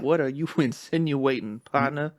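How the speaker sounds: loud indignant cowboy; cowboy accent. Pretend. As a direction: bristle like an offended cowboy. Cowboy standoff bit.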